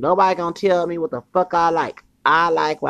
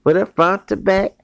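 loud, high call to the crew; 6 semitones higher, 6 dB louder than usual. Real, not acted. Man calling out to his homies, loud and high.

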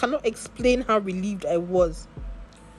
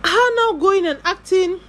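louder, higher, scornful; indignant mockery; 6 semitones higher, 8 dB louder than usual. Real, not acted. About the neighbour taking credit, loud scorn. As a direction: scoff at her acting big.

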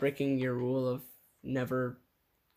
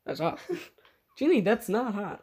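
high-pitched hero voice; 9 semitones higher, 4 dB louder than usual. Pretend. Hero reacting to killing.

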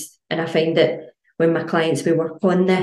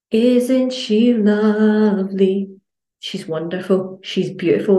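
sweet praise; 3 semitones higher, slower than usual. Retold or imitated. Praising a glass of water.

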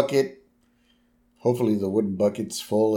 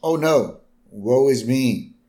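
deadpan mock lament, sinking away; fake sincerity. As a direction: pretend to be woeful, barely trying. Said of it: "He was being very sincere".

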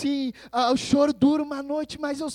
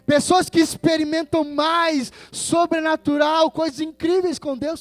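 impassioned preaching; 5 semitones higher, 7 dB louder than usual. Acted. Preacher exhorting the congregation.

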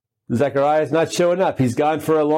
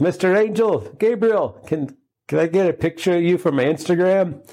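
much higher, eager starstruck asking; excited fan; 5 semitones higher than usual. Retold or imitated. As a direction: gush like a fan begging for a photo. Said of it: "I'd be like".

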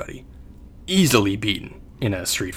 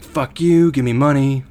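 retold street yell, higher pitched; mock yell; 4 semitones higher than usual. Retelling how some people beg for money, mock yell. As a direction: imitate a demanding yell without going full volume. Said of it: "screaming obscenities at, at people".

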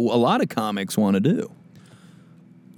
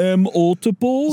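high puzzled speller voice; sounding out words; 11 semitones higher, 4 dB louder than usual. Shown as a demonstration. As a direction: ask "M multiple?" high and unsure. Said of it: "sound out the letters".

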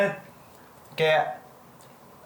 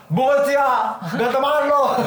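high, loud, laughing "banget sia"; loud giggly parody; mocking laugh; 8 semitones higher, 6 dB louder than usual. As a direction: ham it up while cracking up. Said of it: "Nggak ada orang".

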